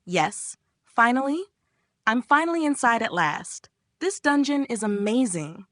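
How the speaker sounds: mildly gleeful, rising in pitch; playful mock triumph; grinning delight. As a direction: grin through it with relief. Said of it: "As he's grinning".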